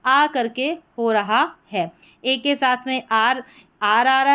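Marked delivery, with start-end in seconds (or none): 0.1-0.2 "आ" as a long open aa; long aa sound. Shown as a demonstration. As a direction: sound the letter A as "आ", drawn out. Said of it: "ए का उच्चारण आ करके".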